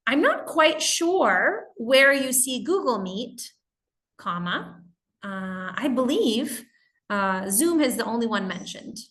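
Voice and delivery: slow, sugary passive aggressive email voice; a touch of mock politeness hiding annoyance; fake polite. Shown as a demonstration. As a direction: sweetly correct them while pretending to be polite. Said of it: "a phrase that pretends to be polite".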